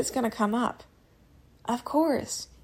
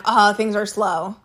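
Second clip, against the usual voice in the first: mock victim whine; 4 dB louder, slower than usual. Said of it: "I'm not like".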